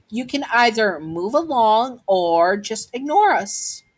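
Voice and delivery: high-pitched, acted ultimatum; child laying down terms; defiant warning. Child warns bully off.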